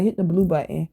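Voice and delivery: retold offhand instruction, neither nice nor nasty; neutral, matter-of-fact. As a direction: toss out a plain instruction in passing. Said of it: "I said it just like that".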